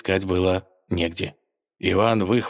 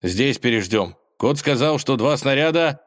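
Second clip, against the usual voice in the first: chipper; 6 semitones higher than usual. Acted. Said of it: "бодро произнести".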